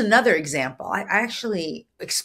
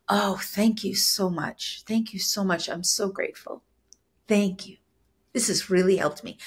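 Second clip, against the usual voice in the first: deep gratitude. Shown as a demonstration. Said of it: "the divine gratitude, like".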